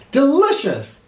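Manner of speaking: delighted president. Acted. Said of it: "he said as he marched".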